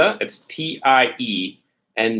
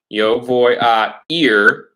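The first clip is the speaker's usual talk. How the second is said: slow dictation; 4 dB louder, much slower than usual. Shown as a demonstration. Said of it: "teacher models sentence slowly".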